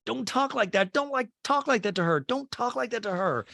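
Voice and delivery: high-pitched repeated retold protest; mock scolding. Recapper replaying a castmate's defence of a friend, high mock scolding. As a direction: imitate someone jumping into a fight.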